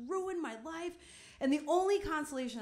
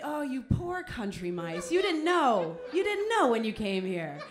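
pitying mouse; 5 dB louder than usual. Retold or imitated. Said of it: "pity from this mouse".

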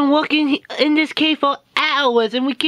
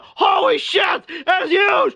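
shocked shout; 5 semitones higher, slower than usual. Acted. Sees something huge.

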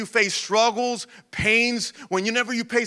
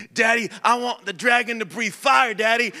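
put-on raspy toddler voice; 3 semitones higher than usual. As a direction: playfully voice your little son asking for a dragon. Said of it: "he has a raspy voice".

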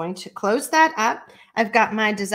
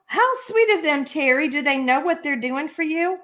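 1 delighted gasp; 5 semitones higher than usual. Real, not acted. Reacting to viewer's company gift cards.

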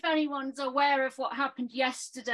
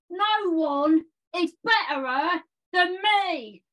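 manic gamer-lad poem, shouted in bursts; chaotic poem performance. Acted. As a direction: rant it like a hyped video gamer. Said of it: "So I've done a poem".

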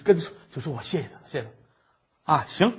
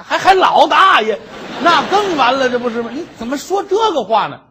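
higher, louder, half laughing; laughing exasperation; 9 semitones higher, 9 dB louder than usual. Acted. Scholar upset at the maid's wording, laughing exasperation. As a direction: sputter in disbelief.

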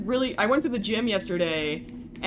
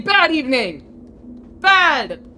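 loud, drawn-out cross correction; grumpy outburst; 5 semitones higher, 7 dB louder, much slower than usual. Real, not acted. Gamer correcting a greeting after failing, loud grumpy outburst. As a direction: punch BAD loudly, higher on the last.

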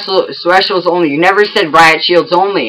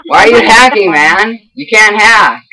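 angry accusing; 4 semitones higher than usual. Real, not acted. Gamer yelling at opponent for hacking, heated. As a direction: yell the cheating charge.

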